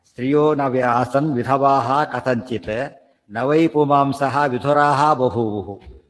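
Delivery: very slow, stretched Sanskrit recitation; verse recitation. Real, not acted. Teacher repeats the verse before explaining, slow recitation. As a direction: draw out each word of the verse.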